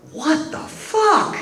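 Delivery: a giddy, high, laughing punchline; laughing disbelief. Retold or imitated. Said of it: "he would laugh again and say".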